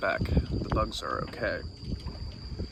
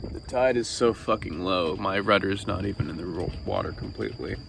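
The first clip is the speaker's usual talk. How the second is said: tired, slurring words; slurred speech; 4 semitones lower than usual. Real, not acted. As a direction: slur it like you're exhausted. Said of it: "I'm slurring my words, I'm fucking tired".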